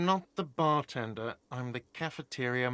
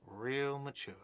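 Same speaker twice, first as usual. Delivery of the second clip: much softer, under the breath; muttered repeat; 7 dB quieter, slower than usual. Acted. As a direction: mutter it back to yourself. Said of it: "a whiny voice shouts".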